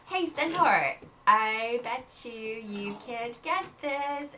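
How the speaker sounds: slow, teasing challenge; taunting girl. Acted. Aurelia dares the centaur to catch the puppy, teasing. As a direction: dare him with a sneer.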